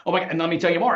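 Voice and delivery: eager mock gush; over-excited. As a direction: imitate an excited oversharer. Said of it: "get all excited and go".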